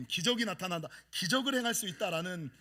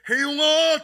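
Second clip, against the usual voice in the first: higher, louder call; calling name; 7 semitones higher, 11 dB louder, much slower than usual. Retold or imitated. A voice calling a sleeping man by name, loud and high.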